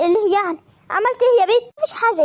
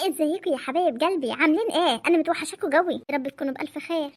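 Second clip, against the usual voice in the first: تحية دافئة; 2 semitones lower, 5 dB quieter than usual. Real, not acted. تعود لصوتها كمدونة تحيي المتابعين.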